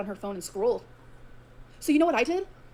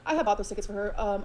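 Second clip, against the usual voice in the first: ordinary talk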